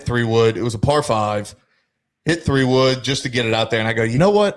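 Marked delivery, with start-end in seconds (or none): 4.0-4.5 a mock eureka moment, pitched up; sudden idea. Retold sudden golf decision.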